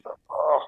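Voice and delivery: short groan of discomfort; pained groan. Shown as a demonstration. Showing a friend where the arm hurts, pained groan. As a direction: grunt from a sore arm.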